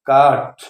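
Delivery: "काट" with a long aa, dropping low; read as caught. Shown as a demonstration. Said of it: "इसलिए इसको हम पढ़ेंगे क्या".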